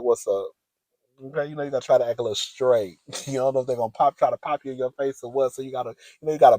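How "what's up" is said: lower, butched-up greeting; put-on deep voice. Shown as a demonstration. Greeting these men so as to seem straight, deep voice. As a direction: butch it up, act a little straight. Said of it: "put your deep voice on".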